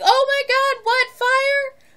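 high, loud confused yelp; startled panic. Retold or imitated. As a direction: jolt awake thinking there's a fire. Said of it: "I was like".

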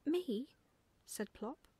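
high-pitched astonished owlet; small bird's surprised question; amazed. Acted. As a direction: squeak it in disbelief. Owlet amazed at being drawn.

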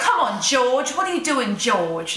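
imitated UK accent, falling away on the name; playful mock-British scolding; Peppa Pig. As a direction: put on a UK cartoon accent. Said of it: "everything's in that U K accent".

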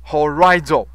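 whisper. Real, not acted. Teacher aside under breath.

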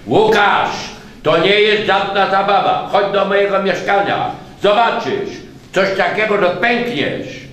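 loud high urging; boy urging his friend to come; urgent boy. A narrator's reading. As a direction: press him to come see.

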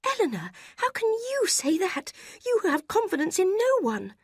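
very high, loud indignant reply; indignant retort. A narrator's reading. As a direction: turn the accusation back.

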